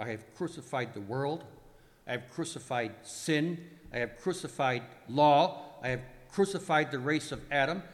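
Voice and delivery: litany building steadily to a loud peak; swelling dramatic proclamation; triumphant declaration. Acted. Acted list of victories, building.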